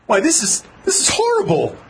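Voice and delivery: high-pitched cry of dismay. Acted. Man reacting to horrible news, dismayed. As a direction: react aghast, pitch leaping up.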